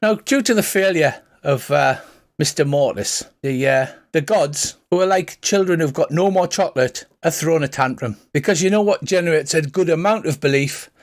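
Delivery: a sly priest spinning a tale over drinks; Irish accent. Acted. Father Dougal lectures the party about gods and belief, light Irish accent. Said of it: "pretend Colin Farrell accent".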